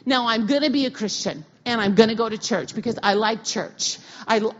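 loud, firm vow to God; loud defiant prayer; defiant declaration. Retold or imitated. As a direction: declare it like slamming a door. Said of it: "And I said".

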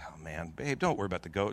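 low, soft, tired soothing; weary reassurance. Retold or imitated. Husband soothing his crying wife on the phone, wearily reassuring. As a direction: gently brush off the worry.

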